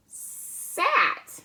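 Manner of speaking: sat said high and clear; Sat lifted high, the blended word revealed; Sat rung out high like a reveal; bright teacher reading. Shown as a demonstration. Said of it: "Now we have".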